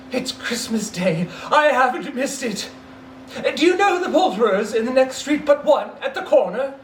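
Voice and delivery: high, giddy, laughing through it; laughing with joy. Acted. Scrooge laughing with relief at the window. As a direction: giggle with relief.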